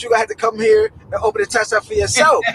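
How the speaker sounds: high, fast scolding granny voice; grandma voice. Retold or imitated. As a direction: play a sassy grandma.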